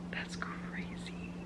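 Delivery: very soft, slow whisper; hushed, drawn-out amazement; stunned whisper. Real, not acted. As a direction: whisper it slowly in real disbelief. Stunned by her own news.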